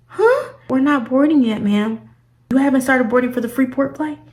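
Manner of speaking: squeaky high incredulous questions; shocked disbelief. Retold or imitated. Retells disbelief at gate agent.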